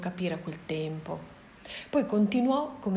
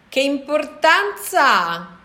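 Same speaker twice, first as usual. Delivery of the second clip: gorilla's reply; 8 semitones higher, 12 dB louder, slower than usual. A narrator's reading. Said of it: "replicò lui in modo altrettanto silenzioso".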